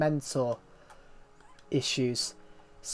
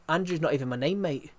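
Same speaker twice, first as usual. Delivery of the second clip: put-on London accent. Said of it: "went from Belgium to a London accent".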